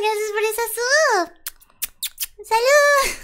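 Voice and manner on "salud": playful toast. Pretend. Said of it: "Este es mi mood".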